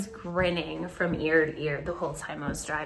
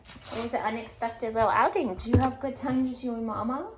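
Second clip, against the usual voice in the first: higher-pitched talk to a dog; pet-talk voice; 4 semitones higher than usual. Real, not acted. Owner asking Benny the dog about the outing, pet-talk voice. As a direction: coo a fond question to your dog.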